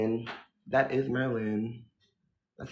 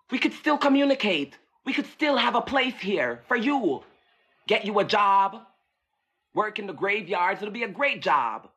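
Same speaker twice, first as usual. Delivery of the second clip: coaxing ghost; 6 semitones higher than usual. Acted.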